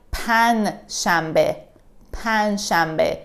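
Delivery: PAN shambe, ending the first word on n; dropped j. Shown as a demonstration. Teacher explaining what it sounds like, pan shambe in spoken pronunciation. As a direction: say pan shambe without any j. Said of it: "We don't pronounce the j".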